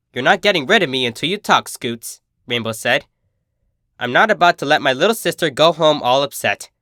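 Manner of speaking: a hint of brash big sister, friendly; cheerful, teasing sporty pony; lightly voiced tomboy. Narrator voices Rainbow Dash.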